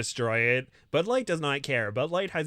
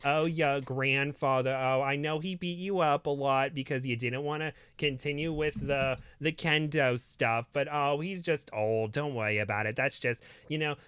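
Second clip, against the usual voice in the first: doting Jewish grandmother; 2 semitones higher than usual. Acted. Grandma fussing over Kirito with rice balls, a lightly doting old-lady voice. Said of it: "little Jewish grandmother".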